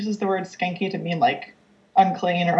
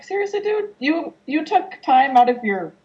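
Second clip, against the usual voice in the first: incredulous; 2 semitones higher than usual. Retold or imitated. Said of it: "Yeerks are, like".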